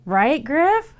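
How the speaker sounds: excited pet talk. Real, not acted. Owner squealing as her cat hisses at the toy fish. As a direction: squeal at the animals with delight.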